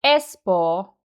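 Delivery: "Espoo" with ES stressed, long falling o; front-stressed "ES-pohh"; strong first syllable. Shown as a demonstration. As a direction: hit "Es" and let "poo" fall. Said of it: "is the strongest part".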